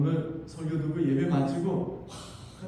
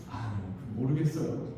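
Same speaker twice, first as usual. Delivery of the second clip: much lower and softer shrug of an answer; husband's reply; 7 semitones lower, 5 dB quieter than usual. Retold or imitated. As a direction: mutter it off modestly. (낮은 대답)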